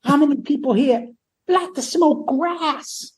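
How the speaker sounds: mocking the frontman asking who smokes grass; imitating the frontman. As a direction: stretch out the question like a hammed-up frontman. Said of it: "this is what Paul says".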